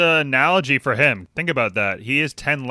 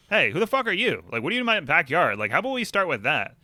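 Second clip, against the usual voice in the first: higher-pitched mock outrage at intruders; indignant confrontation; 4 semitones higher than usual. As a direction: demand who they are, pitched up in disbelief. Imagined confronting intruders in backyard.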